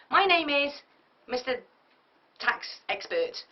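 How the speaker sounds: punchy intro with big pauses, name said slowly; dynamic introduction. Shown as a demonstration. Speaker coaching an audience, a dynamic confident intro. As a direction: grab the bored room with a bold name. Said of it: "let's say the accountant".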